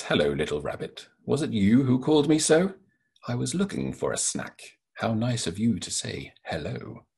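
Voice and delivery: lightly voiced sly lion, sweetly inviting; a hint of a hungry lion luring its snack; lion greeting rabbit. Author reading his picture book aloud, lightly voiced lion. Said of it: "Lion greets Rabbit and says".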